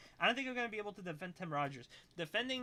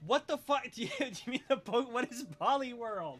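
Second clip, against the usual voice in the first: louder and higher, in stunned disbelief; shocked outburst; 7 semitones higher, 5 dB louder than usual. Real, not acted. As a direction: blurt it out, genuinely thrown. Shocked at chatter's request.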